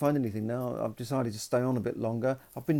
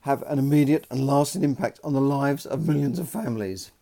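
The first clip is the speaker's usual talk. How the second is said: light impression of a politician's speech accent, louder and measured; lightly mimicked accent of a prime minister's speech; put-on Theresa May accent; 4 dB louder than usual. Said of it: "I had to do that little accent".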